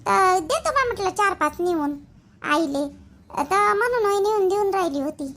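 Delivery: hesitant, halting excuse; nervous explanation. Acted. Daughter-in-law explaining the brinjals to her mother-in-law, nervous and hesitant. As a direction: stall and stumble through your justification. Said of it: "एवढं घाबरायचं कारण आहे का".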